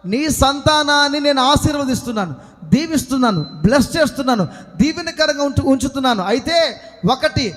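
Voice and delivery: driving, insistent pulpit delivery; impassioned preaching. Acted. Preacher urging the congregation to answer Amen, impassioned preaching.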